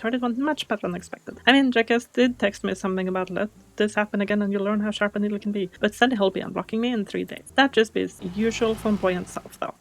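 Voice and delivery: quick, friendly local voice calling you mate; lightly voiced cheery local; chummy townsman on the phone. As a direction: rattle off gossip like a chatty neighbour. Reads phone call NPC lines.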